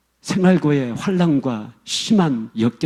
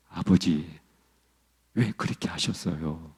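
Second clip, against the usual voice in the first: low, soft, hushed plea to father; a low hushed first cry of "아버지"; quiet first plea; 8 semitones lower, 9 dB quieter than usual. Retold or imitated. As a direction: begin low and hushed, barely daring. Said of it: "점점, 점점 톤이 올라가면서".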